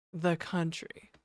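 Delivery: slow southern accent on the country. Shown as a demonstration. Streamer demoing the line for chat, slow southern accent. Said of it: "say it in a southern accent".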